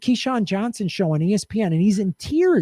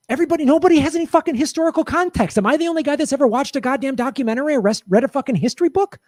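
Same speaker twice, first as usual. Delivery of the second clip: fast, higher, heated venting; rapid outraged tirade; exasperated rant; 6 semitones higher, faster than usual. Real, not acted. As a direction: fire it off in disbelief. Exasperated rant about history.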